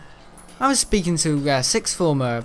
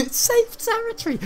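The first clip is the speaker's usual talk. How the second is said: laughing repeat. Real, not acted. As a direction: squeal the punchline through laughter. Laughing repeat of own punchline.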